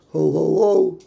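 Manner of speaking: jolly Santa ho ho ho; Santa laugh. Pretend. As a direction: boom it out like Santa. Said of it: "I could play Santa this year".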